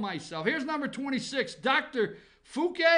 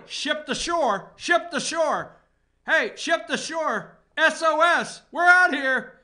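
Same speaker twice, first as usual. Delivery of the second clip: slow hammed-up ship-to-shore call, louder at the end; mock radio distress call; 3 semitones higher, 5 dB louder, slower than usual. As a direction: call for rescue over a crackly radio.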